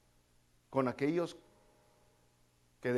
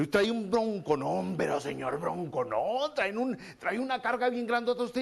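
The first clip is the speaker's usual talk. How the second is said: a hint of a burdened friend; mock troubled believer; 5 semitones higher than usual. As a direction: act out someone weighed down, lightly.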